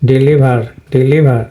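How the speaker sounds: ডেলিভার said "dilibha" with no final r; British pronunciation. Shown as a demonstration. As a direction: drop the r at the end of ডেলিভার. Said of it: "ব্রিটিশরা এটা উচ্চারণ করে না". (ডেলিভার British উচ্চারণে, শেষে র বাদ)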